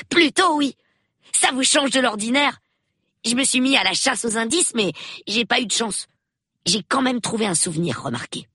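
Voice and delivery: put-on high, chattering child's voice; excited young boy. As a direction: gush like a boy on a murder hunt. Reader voices young Peter. (voix aiguë de gamin enthousiaste)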